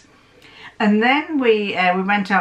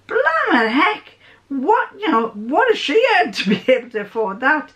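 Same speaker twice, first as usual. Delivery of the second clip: shocked; 7 semitones higher than usual. Retold or imitated. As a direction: gasp at the price tag. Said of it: "And I'm thinking".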